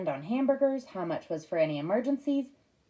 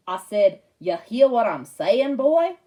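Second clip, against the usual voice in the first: louder, slow Southern hillbilly repeat; insistent hillbilly accent; 9 dB louder, slower than usual. Retold or imitated. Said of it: "Dad did an imitation of a hillbilly accent".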